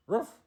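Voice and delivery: loud high yappy bark; dog bark. Acted. Dog behind the door barking at the girl, loud yap.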